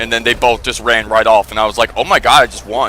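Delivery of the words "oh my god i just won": ordinary delivery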